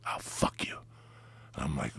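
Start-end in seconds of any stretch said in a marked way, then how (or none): 0.1-0.8 whispered. Retold or imitated. Seductive whisper quote.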